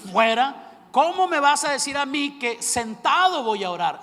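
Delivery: preacher mock-rebukes Satan at full volume; rebuking Satan. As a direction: cast out the devil in a furious yell. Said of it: "lo que todo buen siervo del Señor hace".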